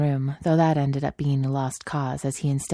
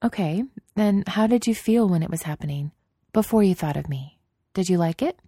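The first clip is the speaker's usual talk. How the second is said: Padme's voice; 4 semitones higher than usual. Acted.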